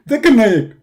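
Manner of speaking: 1 Zakir Naik. Acted.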